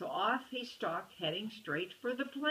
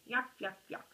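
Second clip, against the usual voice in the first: mock chuckle; 4 semitones higher than usual. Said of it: "chuckling at his own joke".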